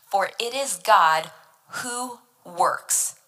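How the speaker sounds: slow, with "works" set apart after a pause; stress on works. Shown as a demonstration. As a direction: hold back, then land "works" on its own. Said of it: "Emphasis on the word works".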